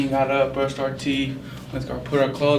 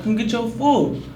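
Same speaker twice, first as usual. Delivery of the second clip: higher, slow coaxing voice; 9 semitones higher, slower than usual. Retold or imitated. Uncle coaxing nephew to eat: higher, slow coaxing. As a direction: lure the kid in gently.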